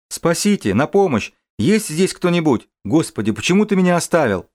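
high desperate cries for help; calling for help. Acted. Man hanging over cliff calls.

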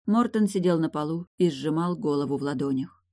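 ordinary delivery

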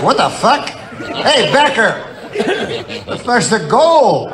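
high-pitched mock outrage; indignant complaint. Retold kids confront the prospector.

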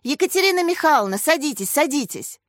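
high, hurried invitation; animated calling; urging. A narrator's reading. Colleague urges latecomer to sit.

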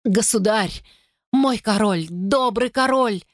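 high, slow pleading cry; sick woman begging the king; desperate plea. Acted. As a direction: beg the king for mercy.

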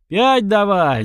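high, rousing shout; crowd yell. A narrator's reading. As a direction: roar the demand like a crowd. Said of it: "закричала толпа".

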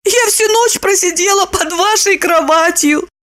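put-on high young woman's voice; Lipochka's voice. A narrator's reading. Lipochka confessing to Roman, high voice.

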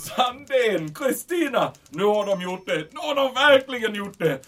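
high, agitated calling out of names; excited outburst. Acted. German commandant bursting in on Sandén, excited. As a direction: burst in with alarming news.

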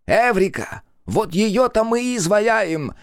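high, gleeful proclamation; clowning. A narrator's reading. Small friend proposes the statue, clowning. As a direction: announce it like a silly inventor. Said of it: "продолжал поясничать".

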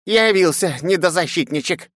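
mock him from the front row; old crone in the crowd jeering at the knight; nasty old woman. A narrator's reading. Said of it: "прокричала мерзкая бабка из первых рядов".

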